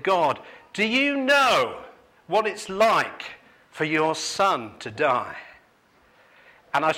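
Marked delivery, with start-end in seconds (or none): 0.0-5.4 high, slow, pleading question to God; retold crying prayer. Grieving father asking God in prayer, high slow plea. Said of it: "And I was crying and I said".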